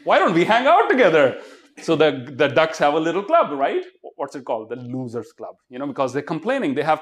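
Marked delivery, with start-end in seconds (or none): 0.0-1.4 higher and louder, laughing, same species dragged out slowly; delighted duck. Retold or imitated. Duck greeting another duck, high laughing delight. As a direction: greet a fellow duck like a long-lost brother. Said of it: "One duck sees another duck say".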